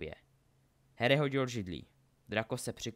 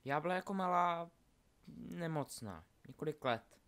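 put-on high, soft girl's character voice; Delphi, confiding; 6 semitones higher, 5 dB quieter than usual. Delphi tells Scorpius about childhood illness, confiding. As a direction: confide it lightly and high, with small pauses.

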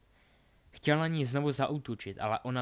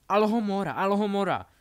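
loud, high, repeated incantation; shouted spell; 8 semitones higher, 11 dB louder than usual. Acted. Albus opens both doors mid-battle, shouted spell. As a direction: cast it at full voice, twice.

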